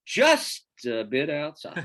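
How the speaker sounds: imitating an announcer, slow and dry; deadpan announcer quote. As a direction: drawl it like a radio announcer calling a wild pitch. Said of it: "I go".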